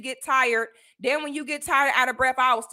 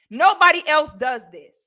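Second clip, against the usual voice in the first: loud and exasperated, louder; real exasperated shout; 6 dB louder than usual. Real, not acted. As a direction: shout it out, fed up. Fed-up rant to viewers.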